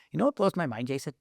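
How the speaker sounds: lightly voiced mock of Andre; a slight made-up voice for a friend; put-on voice for Andre. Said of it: "I'm just totally making a voice like that".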